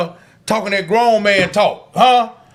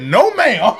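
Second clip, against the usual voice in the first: laughing. Retold or imitated. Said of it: "I said".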